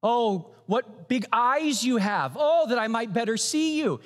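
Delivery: lightly voiced innocent girl; girl's voice.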